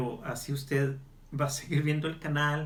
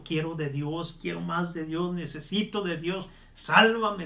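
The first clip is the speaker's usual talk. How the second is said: soul crying out; 2 semitones higher, 4 dB louder than usual. Retold or imitated. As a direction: start as an inner plea, then burst out crying for rescue. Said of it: "tu alma está gritando".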